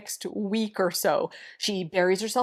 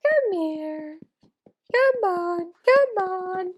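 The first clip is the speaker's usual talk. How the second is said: high-pitched calling, urging it over; calling the dog; 8 semitones higher, slower than usual. Real, not acted. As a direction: coax a dog to come with raised pitch.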